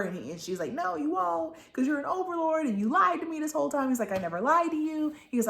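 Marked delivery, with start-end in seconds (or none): 0.7-3.9 high-pitched, fast mock accusation; acted angry retort. Mom's side of an acted quarrel. 4.1-5.1 high, fast, louder denial; acted protest. Man's side of an acted quarrel.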